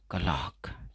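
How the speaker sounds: कलाक said with no r, short falling; कलाक, r dropped, clear vowels; silent r demo. Shown as a demonstration. Teacher demonstrating कलाक with the r kept silent. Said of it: "तो इसमें आर को silent रखेंगे".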